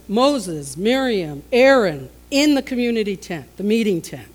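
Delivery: loud parental calling-out, each name punched; stern summons. Acted. God summoning three siblings to the meeting tent, loud and stern. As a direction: call them in like a parent laying down the law.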